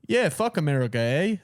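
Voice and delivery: a hint of a mock Canadian accent on "eh"; half-hearted Canadian accent, tossed off; lightly mocking Canadian accent. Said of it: "I can't do a Canadian accent".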